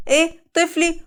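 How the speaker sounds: put-on horrified at the threat to her baby; shocked.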